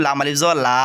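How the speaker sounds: টেনে পড়া লা; long a drawn out. Shown as a demonstration. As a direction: stretch the final আ in লা for one alif length. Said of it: "এক আলিফ টানিয়া পড়তে হয়".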